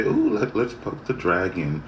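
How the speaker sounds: mocking thrill-seekers. Mocking people who poke the dragon, high squeals. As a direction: mimic silly people gleefully poking danger. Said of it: "everybody just wants to say".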